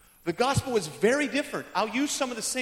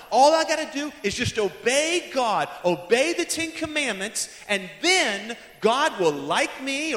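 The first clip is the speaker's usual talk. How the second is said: louder, insistent list of bargains; lightly voiced moralist; 4 dB louder than usual. Moralist bargaining for God's acceptance, insistent and louder. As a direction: press each promise a little harder. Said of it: "The moralist believes".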